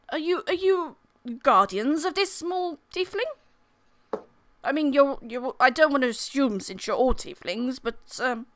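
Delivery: politely awkward knight; hesitant knight. Acted. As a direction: ask tentatively, stumbling over the assumption. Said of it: "he looks around at all of you and he's like".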